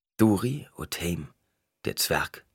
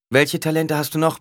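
higher, louder curt order; a hint of a commanding Paul; 10 semitones higher, 6 dB louder than usual. A narrator's reading. Paul orders Duri to call the dwarf, firmly.

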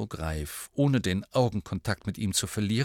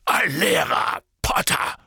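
loud indignant bellow; roaring; 6 semitones higher, 4 dB louder than usual. A narrator's reading. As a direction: bellow it at the pupil. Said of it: "brüllte er Harry an".

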